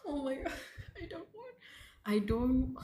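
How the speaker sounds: high, fast panicked laugh; nervous laugh. Real, not acted. Reader overwhelmed by horror, panicked laughing. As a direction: laugh through the dread.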